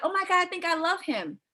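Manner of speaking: high, swoony gush; mock gushing. Coach imitating client who got brought lunch, mock gushing. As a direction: mimic someone head over heels.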